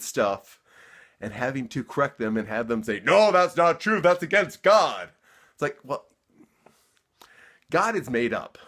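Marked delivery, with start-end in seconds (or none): 3.0-5.1 indignant Southern believer, louder; Southern accent. Retold or imitated. Believer objecting to being corrected, loud mock Southern accent. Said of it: "using a Southern accent".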